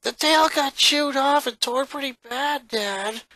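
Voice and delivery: just report the damage; matter-of-fact sister. Acted. Sister telling her father about the torn tail, matter-of-fact. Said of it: "Lana stated".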